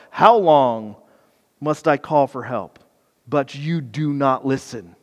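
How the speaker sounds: a touch of weary complaint; Habakkuk's complaint. Acted. Habakkuk complains to God, mildly weary. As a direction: sag into tired grievance. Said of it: "his complaint starts off with".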